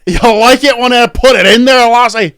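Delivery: high, loud mock-seductive Scottish accent; sexy Scottish accent. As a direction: leer it in a hammed-up Scottish brogue. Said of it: "sexy Scottish".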